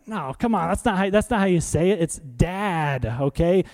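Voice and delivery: mild mock scold of a toddler. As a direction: correct a baby with pretend disapproval. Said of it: "I didn't scold him".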